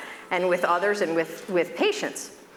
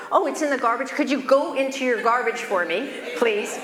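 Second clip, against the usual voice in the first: mock surprise; 5 semitones higher than usual. Doctor coaxing a patient to dig out the package, mock surprise. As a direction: feign surprise, then coax. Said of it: "So he said".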